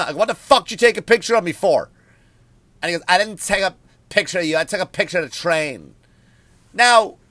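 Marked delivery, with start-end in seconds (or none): 0.0-1.9 mock angry repeat. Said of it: "whole train turned around like". 3.1-5.9 lightly voiced defensive stranger; a hint of the guy. Stranger on the train denies it, lightly voiced. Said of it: "that's how he said it".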